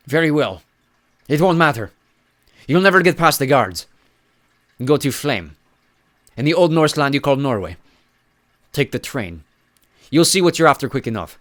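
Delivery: loud, high giant voice, mocking; a beaten giant sneers; sneering giant. Giant gives directions, sneering.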